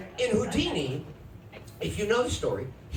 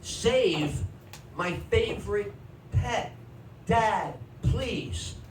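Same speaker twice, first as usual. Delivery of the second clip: put-on a boy begging his dad for the frog; pleading kid; slower than usual. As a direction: beg like a heartbroken boy. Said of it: "I go".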